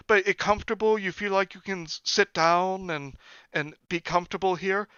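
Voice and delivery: put-on high, slowing accented question; imitating his mother. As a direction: probe the guests suspiciously. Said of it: "She's like".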